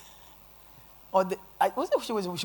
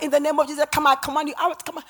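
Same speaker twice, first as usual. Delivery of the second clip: loud exorcist's command; commanding shout; 6 semitones higher, 8 dB louder, faster than usual. Retold or imitated. Preacher re-enacting her command to the demon, commanding shout. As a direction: drive the demon out at high volume.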